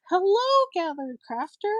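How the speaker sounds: high, loud sing-out hello; imitated host greeting. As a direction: greet a newcomer brightly, mimicking a show host. Acts the host's greeting.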